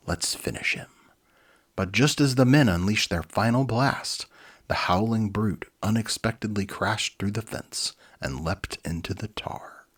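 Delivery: lively read-aloud storybook voice; animated storyteller; story narration. A narrator's reading. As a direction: read it like a children's book. Reads children's book aloud.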